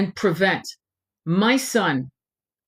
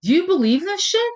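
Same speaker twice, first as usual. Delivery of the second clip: pitched up high in indignant disbelief; outraged disbelief; 9 semitones higher than usual. Real, not acted. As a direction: ask it in outrage, voice climbing high. Outraged rhetorical question.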